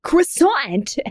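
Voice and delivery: high, silly clown voice. Acted. Co-host reading Comic Sans aloud, in a clown voice. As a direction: put on a clown voice for "Croissant". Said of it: "like, a clown voice".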